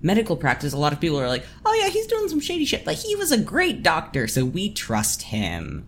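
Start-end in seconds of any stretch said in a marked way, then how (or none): 1.6-5.8 townsperson voice. Retold or imitated. Townspeople voiced excusing the doctor.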